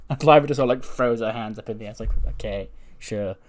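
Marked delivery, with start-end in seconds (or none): 2.3-3.4 soft, slow, low concession; low, drawn-out reluctant okay; resigned agreement. Acted. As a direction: give in half-heartedly, under your voice. Lyra gives in, acted.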